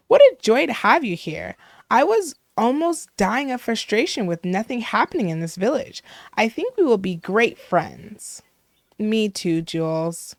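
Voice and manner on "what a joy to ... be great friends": lightly voiced gushing villager; chatty, dramatic hairdresser. Hairdresser welcomes a newcomer to a dull village, lightly gushing. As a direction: greet the newcomer with a touch of drama. Voices a game character's greeting.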